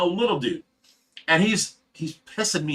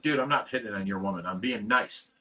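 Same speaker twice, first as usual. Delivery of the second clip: quiet; 6 semitones lower, 9 dB quieter than usual. Retold or imitated. Calming a jealous drunk friend.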